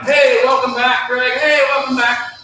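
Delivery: high, slow, sing-song greeting; hammed-up office welcome; cheery welcome back. Staff greeting the boss back from vacation, sing-song.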